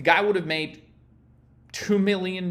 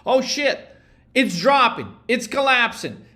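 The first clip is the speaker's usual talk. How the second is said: mock panic; 3 semitones higher than usual. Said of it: "emotionally you're so focused".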